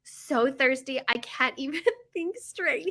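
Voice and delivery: slow, hammed-up suffering; drama queen. Thirsty wife complaining to her husband, mock drama queen. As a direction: drag it out melodramatically. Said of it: "Stop being a drama queen".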